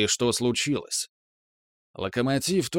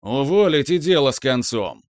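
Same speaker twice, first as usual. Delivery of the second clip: loud boss yelling; angry boss; 2 semitones higher, 5 dB louder than usual. Acted. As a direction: bellow it like a furious chief. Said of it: "проорал начальник".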